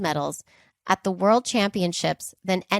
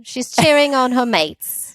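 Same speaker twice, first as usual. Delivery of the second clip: slow, higher hammed-up Australian accent; bad Australian accent; 5 semitones higher, 4 dB louder than usual. Teasing the co-host as maybe Australian, bad Australian accent. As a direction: tease with a badly faked Aussie accent. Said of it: "this is my bad Australian accent".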